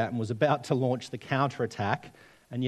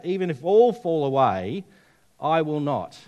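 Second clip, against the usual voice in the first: defiant, louder, with a rising "all"; Peter's bravado; 3 semitones higher, 5 dB louder than usual. Shown as a demonstration. Preacher voicing Peter's bold claim, defiant. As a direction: throw it out like a boast. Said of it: "Do you see that?".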